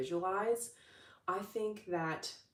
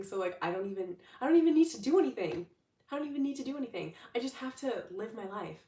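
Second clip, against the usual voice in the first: put-on excited child; 3 semitones higher, 3 dB louder than usual. Child trusting the father's promise, giddy and fast. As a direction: burst with excitement, words tumbling out. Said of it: "you're just so excited".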